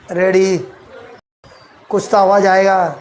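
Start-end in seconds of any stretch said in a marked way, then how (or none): 0.1-0.6 low one-word check; low-key check. Real, not acted. Preacher repeats the check to congregation, low-key. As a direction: drop the pitch on the question.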